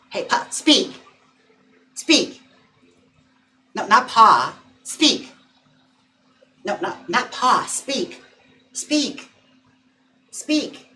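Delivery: high, bright command to the dog. Real, not acted. Owner urges her dog to speak, high pitched. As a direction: coax a bark out of him.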